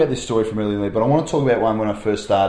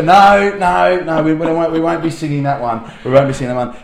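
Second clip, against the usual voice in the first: firm teacher; 4 semitones higher, 7 dB louder than usual. Retold or imitated. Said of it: "and I go".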